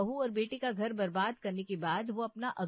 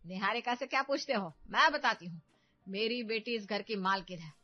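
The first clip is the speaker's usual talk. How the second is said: loud, haughty mother-in-law; domineering mother; 5 dB louder than usual. Acted. Mother defends daughter to son-in-law, haughty. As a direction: lay claim to the house, proud and loud. Tarla asserts authority.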